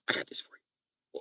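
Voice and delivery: unvoiced whisper of the friend; mock whisper. Friend whispering to Jacob about the box. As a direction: hush it like a secret.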